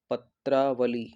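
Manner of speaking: पत्रावली drawn out slowly, syllable by syllable; careful spelling model. Shown as a demonstration. Teacher modelling the corrected spelling for students, careful पत्रावली. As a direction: sound out पत्रावली slowly, ending on i. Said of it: "छोटे ई की".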